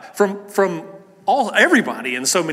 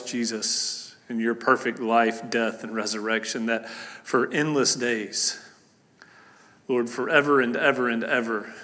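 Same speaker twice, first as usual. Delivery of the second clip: soft, low earnest prayer; hushed pulpit prayer before the sermon; 4 semitones lower, 3 dB quieter than usual. Acted. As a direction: pray quietly and reverently. Pastor prays before sermon.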